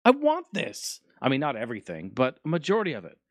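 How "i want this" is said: high, gushing mock delight; higher, overexcited impression of himself; mock excited. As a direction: play the kid who wants the toy. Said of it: "I'm like".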